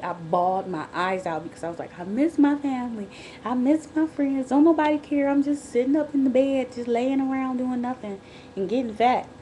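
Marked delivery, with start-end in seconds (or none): 2.0-9.3 high, loud self-pitying whine; hammed-up poor-me lament, pitched up; woe is me. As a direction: wail a mock pity party. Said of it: "I was woe is me".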